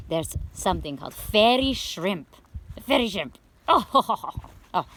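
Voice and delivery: excited outburst tipping into laughter. Acted. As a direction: get carried away, then giggle out an "oh". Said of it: "I got a little excited".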